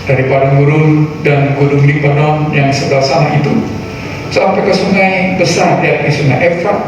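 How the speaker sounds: solemn Bible reading over music; scripture reading. Acted. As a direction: read scripture with weight. Reads scripture aloud. (pembacaan Alkitab yang khidmat)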